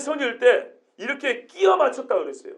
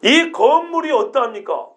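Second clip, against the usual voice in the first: admiring; 2 semitones higher than usual. Shown as a demonstration. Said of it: "이런 뉘앙스로 보통 읽죠".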